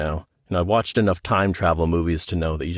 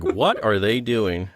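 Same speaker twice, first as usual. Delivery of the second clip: baffled orderly; 3 semitones higher, slower than usual. Pretend. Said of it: "the orderly's like".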